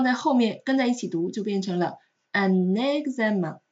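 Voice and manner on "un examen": UN EXAMEN said as "un-nexamen"; liaison with N. Shown as a demonstration. Teacher joins the two words, extra N in UN EXAMEN. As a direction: carry an N into EXAMEN from UN. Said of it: "它会多出来一个ne，nexa这样一个音".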